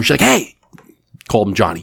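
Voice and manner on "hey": high-pitched retold call; calling someone over. Dealer hails the casino manager, calling him over. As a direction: imitate hailing someone across a room. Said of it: "she calls him over".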